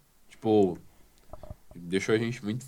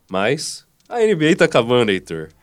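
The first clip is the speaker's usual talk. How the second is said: nasal, congested voice from a cold; blocked nose; 4 semitones higher, 10 dB louder than usual. Real, not acted. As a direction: talk with a stuffy nose. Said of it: "eu vou falar meio fanho".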